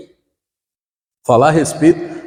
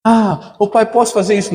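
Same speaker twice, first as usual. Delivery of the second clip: put-on childish request; 7 semitones higher than usual. Child asking father, voiced.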